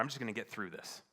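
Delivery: brisk, exasperated declaration; insistent resolve. Retold or imitated. Husband telling God he'll cope, brisk exasperated resolve. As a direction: say it quickly as a last retort. End of retold argument with God.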